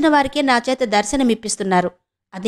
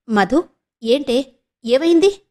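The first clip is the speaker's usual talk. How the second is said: slow, then a high worried question; anxious sister asking what's wrong; gentle alarm rising at the end; 4 semitones higher, slower than usual. Acted. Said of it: "ఆదుర్దాగా ... అడిగింది".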